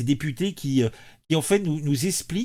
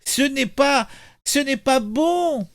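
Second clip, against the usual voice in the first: put-on refusing toddler; 7 semitones higher, 4 dB louder than usual. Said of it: "il ne veut pas".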